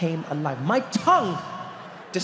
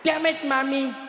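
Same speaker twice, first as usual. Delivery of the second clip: whiny frustrated cry; 8 semitones higher, slower than usual. Retold or imitated. Boy cursing his mom's lunch, high whiny complaint. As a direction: wail the blame at his absent mom. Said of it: "He'd be like".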